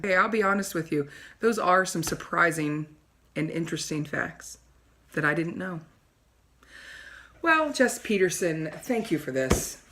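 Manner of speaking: a self-adoring TV host preening for her audience; snooty talk show host. Acted. Wendy signs off.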